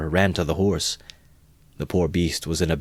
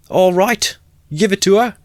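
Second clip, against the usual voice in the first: very high, loud shout; egging on; 8 dB louder than usual. Acted. Crowd urging Mikulka on, loud shout. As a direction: urge him on rowdily.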